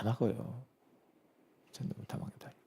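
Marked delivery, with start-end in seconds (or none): 1.7-2.6 hushed, unvoiced aside; whispered insistence. Preacher whispering the point to the congregation. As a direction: whisper it like a secret.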